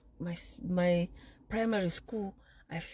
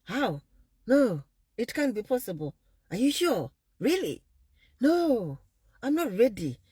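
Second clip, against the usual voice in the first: put-on panicked boyfriend; 5 semitones higher, 4 dB louder than usual. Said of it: "And he's like".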